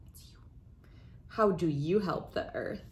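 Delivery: put-on expressive picture-book read-aloud for kids; reading to children. Host reading a picture book to young friends, storytelling voice. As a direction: read it like story time for little ones.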